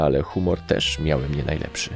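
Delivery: usual speaking voice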